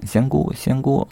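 high-pitched call after someone leaving. Acted. 柳梦梅 calling after the vanished 仙姑, calling out. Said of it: "柳梦梅喊".

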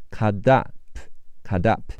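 slow, the t flapped to a d and linked to "up"; American flap, cut up said as "cuddup". Shown as a demonstration. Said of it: "cut的t会变成的，和后面的啊连起来读的啊哒".

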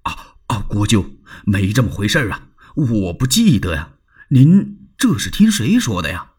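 breathy start, then evasive; flustered Liu Bei. Acted. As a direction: deny it nervously. Liu Bei voiced in story. (慌忙否认)

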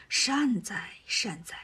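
hushed, soft "善哉" like a monk's prayer; murmured blessing. Acted. Monk Tang Seng murmuring softly to the demon. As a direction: breathe the words out gently.

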